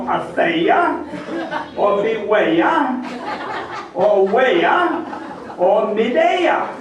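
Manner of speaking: final R in Athea, Waya becomes "ay-uh"; Maine pronunciation. Shown as a demonstration. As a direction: draw out Bewaya and Medea into an "AY-uh" ending. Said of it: "with a hard A sound are pronounced".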